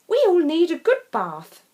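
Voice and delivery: high, loud cheerful remark; cheerful farmer. Acted. Farmer cheerfully telling the muddy family they all need a bath. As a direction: laugh off the mess.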